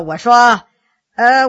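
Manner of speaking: plain reading voice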